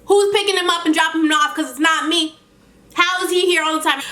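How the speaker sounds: high-pitched incredulous questioning; indignant. Real, not acted. Aunt disputing neighbor's claim about her nephew, indignant.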